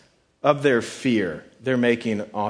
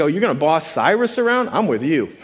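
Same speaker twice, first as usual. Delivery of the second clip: higher and louder, playfully won over; mock eager allegiance; 3 semitones higher, 4 dB louder than usual. Believer hearing God will boss Cyrus around, mock eager allegiance. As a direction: jump on board with playful enthusiasm.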